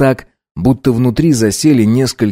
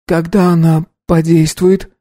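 put-on higher girl's voice, weak and pained; higher young woman, unwell; ailing girl's voice; 8 semitones higher than usual. A narrator's reading. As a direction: play a sick young woman asking for help. Girl voiced.

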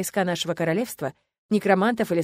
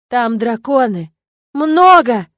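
loud slow shout rising high on Много; excited yell; 4 semitones higher, 11 dB louder, much slower than usual. A narrator's reading. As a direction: shout it pointing at the sky. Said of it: "заорала я". (восторженный крик)

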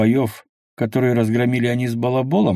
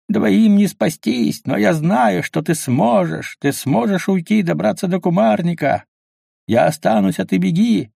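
heroic farewell; 8 semitones higher than usual. A narrator's reading. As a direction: play the noble hero staying behind. Fisherman's false heroic farewell.

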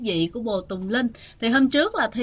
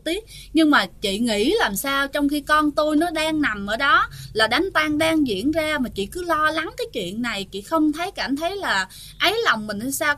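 angry mother-in-law. Retold or imitated. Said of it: "có tức giận nói rằng á".

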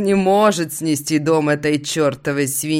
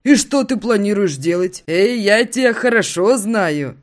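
higher, louder teasing buddy; friend voice; 6 semitones higher, 5 dB louder than usual. Acted. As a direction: squint and tease him. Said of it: "щурится он".

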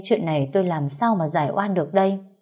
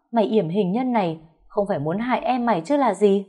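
loud accusing; 2 semitones higher than usual. Acted. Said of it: "oang oang".

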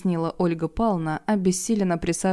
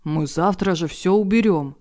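raised voice; 3 dB louder than usual. Acted. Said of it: "повысил голос Валера".

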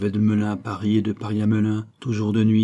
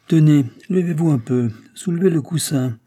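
raised-voice instruction; 5 semitones higher, 6 dB louder than usual. A narrator's reading. Driver orders courier to search coffer.

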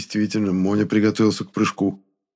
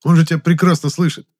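loud, higher, urgent; shout; 9 semitones higher, 6 dB louder than usual. A narrator's reading. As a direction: keep yelling to shut him up. Hero yells at ghost. (громкий раздражённый окрик)

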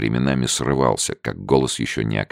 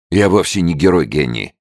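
exclaiming; 6 semitones higher, 6 dB louder than usual. A narrator's reading. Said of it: "воскликнул Эндрюс".

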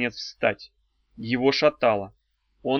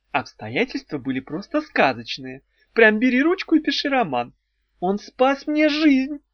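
dreamy, rising higher and slowing on the last line; 8 semitones higher than usual. A narrator's reading. Ulita tells Arey how they met, dreamily. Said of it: "мечтательно сказала Улита".

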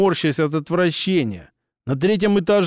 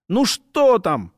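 nervous; 4 semitones higher, slower than usual. Acted. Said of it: "нервно спросил Ларл".

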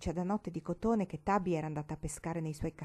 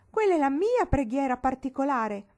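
loud, high-pitched protest; crying out; 7 semitones higher, 8 dB louder than usual. A narrator's reading. Marigold defends her private prayer, crying out. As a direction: claim it as yours in a raised cry. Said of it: "gridò Marigold".

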